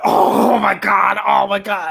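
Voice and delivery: drawn-out "oh my God"; mock horrified disbelief. Sal pretends shock after touching Cheetah, hammed-up disbelief. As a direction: play up fake amazement. Acting out Sal's feigned shock.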